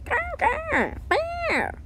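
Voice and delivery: high, squeaky creature grrs; sea creature growl. Acted. Sea creature answers in its own language, high growls. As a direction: play a little sea animal talking in growls. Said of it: "Your languages even sound dis-, di-, different".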